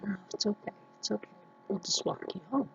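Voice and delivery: soft, gentle retold reassurance; hushed, kindly "there, there" tone; retold soothing. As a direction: quietly comfort a child close to tears. Soothing a child about to cry.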